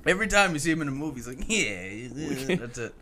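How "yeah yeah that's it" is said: Terrence Howard. Retold or imitated. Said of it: "You don't think that's Terrence Howard's voice?".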